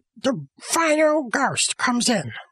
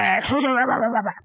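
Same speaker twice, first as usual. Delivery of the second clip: spooky ghost noise. Acted. Ghost insists he is scary.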